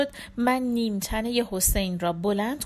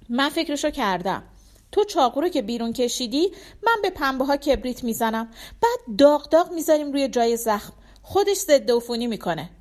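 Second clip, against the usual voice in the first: higher, brisk and louder instructions; Shamsi decisive; 4 semitones higher, 4 dB louder than usual. Acted. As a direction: lay out the plan fast and sure. Narrator voices Shamsi explaining.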